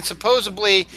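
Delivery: supposedly said as "suh-POZE-uh-blee"; variant pronunciation. Shown as a demonstration. Host reading that the variant is a word, pronounced with B. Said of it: "doesn't mean what you think it means".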